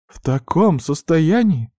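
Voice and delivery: can't hold it in; losing it. A narrator's reading. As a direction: sister bursts out in alarm. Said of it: "не выдержала Арина".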